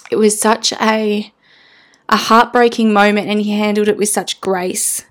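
choking up while telling it; tearing up. Real, not acted. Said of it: "I'm gonna tear up here".

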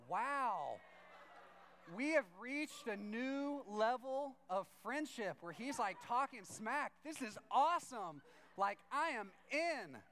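slow, high, drawn-out awe; awestruck, emphatic delight; hammed-up amazement. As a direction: stretch each phrase out in wonder. Retold awe at new friendship level.

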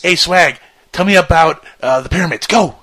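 loud, high mock interview prompt; demo question to guest. Host mimics quizzing Swag, calling out loudly. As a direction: call out, then launch him off. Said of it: "ask him a question and just say".

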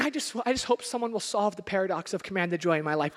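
sarcastic mock wish. Pastor teasing congregation with a mock morning thought. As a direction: tease them with fake earnestness.

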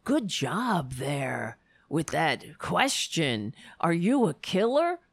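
slow, lightly sneering anchor voice; mock anchor praise. Mocking the TV anchor praising the interview, slow sarcastic voice. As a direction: drag it out like a smug newsreader. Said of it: "it was like".

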